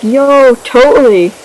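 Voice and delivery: mock-eager yes from a story character; eager acceptance. Acts girl accepting a date.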